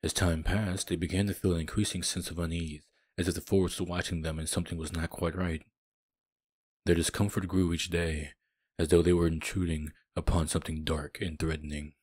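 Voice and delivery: low, measured storyteller read; low-pitched game narration; story narration. A narrator's reading. Reads the game's story narration.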